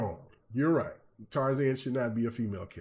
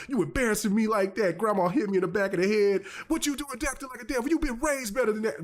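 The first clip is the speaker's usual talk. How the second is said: high chiding voice; scolding grandma; 7 semitones higher than usual. Retold or imitated. Grandma to grandson after his fit, high chiding. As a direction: scold the boy like an upset grandma.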